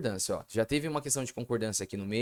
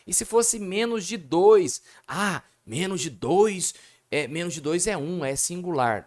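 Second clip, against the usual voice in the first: voicing a student; 5 semitones higher, 4 dB louder than usual. Teacher voicing student doubt.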